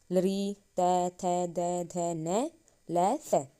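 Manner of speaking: each dental letter sounded out in turn; sounding out the dental letters for students; dental sounds recited. Shown as a demonstration. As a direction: drill तै, थै, दै, धै syllable by syllable. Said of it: "दांत से करते हैं".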